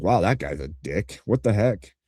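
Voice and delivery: put-off newcomer. Retold or imitated. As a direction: sound like a stranger who is turned off. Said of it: "do you think they're like".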